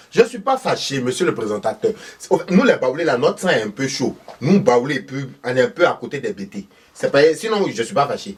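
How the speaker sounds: voix aiguë de vieille villageoise, criée fort; vieille maman fâchée. Acted. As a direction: une mère ivoirienne qui nie être fâchée en criant. Thérèse nie être fâchée. (Madame Thérèse, vieille dame aiguë qui proteste)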